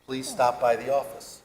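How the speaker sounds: lightly put-on Hasidic Jewish accent, laughing through it; caring landlords voiced in a Hasidic Jewish accent, half laughing. Landlords inviting him to the office, mild Hasidic Jewish accent. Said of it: "I'm trying not to do the accent".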